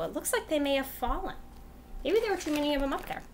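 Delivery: rhythmic read-aloud voice; reading to children. Acted. Teacher reading a rhyme book to kids, rhythmic. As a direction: read it like a bedtime storybook.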